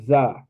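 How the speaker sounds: "za" light and short; "za" with a small ah; correct za. Shown as a demonstration.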